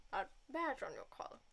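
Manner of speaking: put-on pompous old gent, booming by the end; blustery old lawyer. Grand old lawyer grilling the young lawyer, pompous and booming. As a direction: play the grand old lawyer, rising to a bark. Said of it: "I'm gonna give him a War Stash-esque voice".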